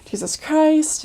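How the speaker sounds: lightly voiced recited door pitch, quick; a hint of a memorized sales-pitch voice; rote missionary spiel. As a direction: rattle off the rehearsed doorstep intro. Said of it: "our whole spiel of".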